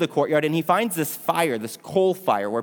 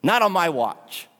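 bold vow; 3 semitones higher than usual. Retold or imitated. Peter answers Jesus's warning with a bold vow. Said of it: "Peter's response is very bold".

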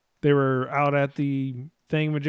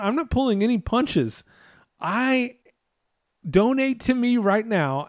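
defiant Rand Paul; 4 semitones higher than usual. Retold or imitated. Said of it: "And he goes".

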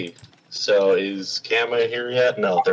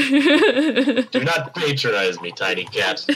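cold rasping evil emperor; 6 semitones higher, slower than usual. Acted. Rockthor threatening in character.

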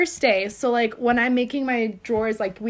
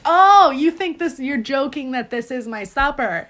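laughing retelling; 6 dB louder than usual. Retold or imitated. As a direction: burst out laughing as it dawns on you. Retold realizing coworker's joke.

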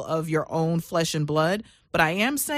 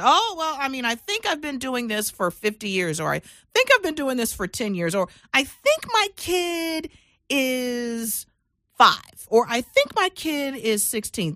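mock clueless entrepreneur; 5 semitones higher than usual. Imitating clueless entrepreneur's vague answers.

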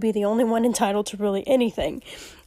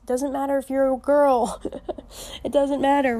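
laughing insistence; 4 semitones higher, 4 dB louder than usual. Real, not acted.

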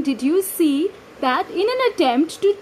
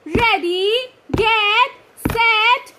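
building countdown; 4 semitones higher, much slower than usual. Acted. Starting the race.

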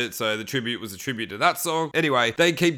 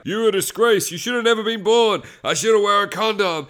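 imitating an angry dad; 7 semitones higher, 5 dB louder than usual. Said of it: "starts seeing his dad's like".

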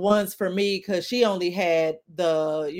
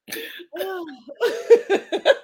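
rough hacking cough; smoker's cough; 11 semitones higher, 3 dB louder than usual. Real, not acted. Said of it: "That was a smoker's cough".

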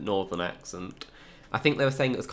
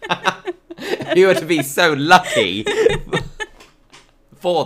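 high, loud laughing protest; 12 semitones higher, 14 dB louder than usual. Real, not acted. Teasing friend back through laughter, laughing hard.

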